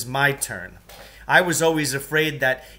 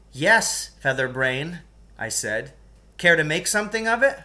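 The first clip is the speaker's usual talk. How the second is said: taunting; 4 semitones higher than usual. Acted. Narrator taunts bigger kid.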